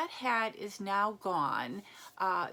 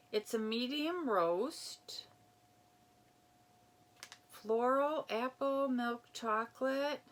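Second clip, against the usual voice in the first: whisper; 3 semitones higher than usual. Real, not acted. Reading the coffee card aside.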